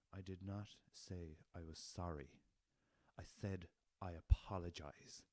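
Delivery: slow, pointed and prissy, leaning on said; imitating a haughty prim woman; prim correction. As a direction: correct him with snooty precision. Woman corrects sorry to apologize.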